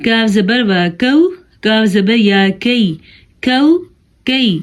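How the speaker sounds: کاف light, a plain thin k; thin kaf. Shown as a demonstration. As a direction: keep the k of کو، کی light and forward. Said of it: "یہ باریک قاف". (باریک کاف)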